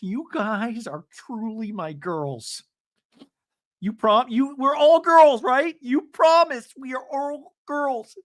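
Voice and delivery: high, slow, hammed-up declaration; mock-solemn pledge to the group; overwrought gushing. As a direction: proclaim it far too intensely. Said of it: "take it down all the notches".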